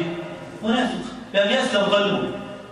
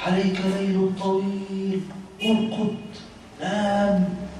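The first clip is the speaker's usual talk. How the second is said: devil whispering in your ear; 4 dB quieter, much slower than usual. Acted. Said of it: "يقول لك في ودنك".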